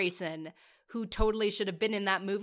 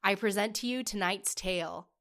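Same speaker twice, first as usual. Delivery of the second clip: grand ringmaster introduction, louder; showman announcer; 2 semitones higher, 3 dB louder than usual. Acted. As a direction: present it like a stage host.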